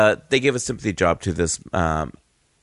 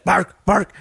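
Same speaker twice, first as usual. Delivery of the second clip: put-on high English-accented barking words; 8 semitones higher than usual. Coworker barking while rolling silver, mock English accent. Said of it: "I'll use an English accent".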